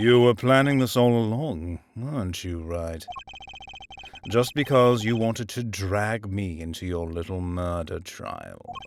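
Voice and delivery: put-on villainous British accent. In a roleplay, accusing another character of planning everything, in a british villain accent. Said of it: "now I need to turn on the British villain accent".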